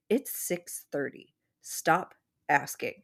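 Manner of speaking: "Stop asking" drawn out slow, patient but firm; calm, firm end to the questions; frustrated but nice. Retold or imitated. Dream Will holds her shoulders, slow and firm. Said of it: "getting frustrated".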